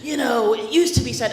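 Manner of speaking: a hint of a sassy scolding; acting out. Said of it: "this is an enactment only".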